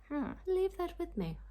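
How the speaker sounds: high, playful sing-song. Real, not acted. Vlogger to viewers, putting the question aside playfully. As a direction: toss it off lightly, high up. Unsure about Austen weddings.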